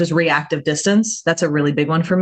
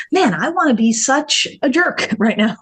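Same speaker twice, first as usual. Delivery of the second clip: laughing; 6 semitones higher than usual. Retold or imitated. Confessing urge, laughing through it.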